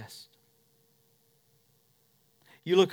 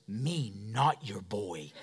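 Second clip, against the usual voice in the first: put-on pouting toddler; 9 semitones lower, 10 dB quieter, much slower than usual. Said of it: "stomps his foot".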